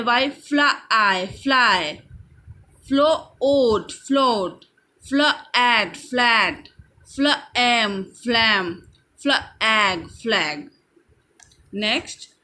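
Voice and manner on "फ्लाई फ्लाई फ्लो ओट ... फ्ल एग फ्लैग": slow phonics drill, split फ्लैट into फ्ल and एट, then join; slow, segmented word-building from फ्ल; sounding out blends. Shown as a demonstration. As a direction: slowly give फ्ल, the ending, then the whole word as in फ्लैग. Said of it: "F L हो गया".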